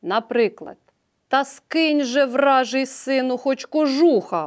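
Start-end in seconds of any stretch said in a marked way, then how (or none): 1.3-4.5 raised, slowed call to a stubborn son; мʼякий нетерплячий вигук; impatient call. Acted. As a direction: call out to him, losing patience. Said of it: "гукнув не втерпівши Тарас".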